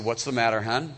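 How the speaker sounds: hammed-up husband sweet-talk; husband comforting. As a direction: play the clueless husband consoling his wife. Husband Elkanah comforting Hannah.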